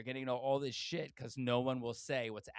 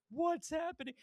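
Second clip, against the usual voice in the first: baffled what's happening. Retold or imitated. Viewer reacting to baffling scene.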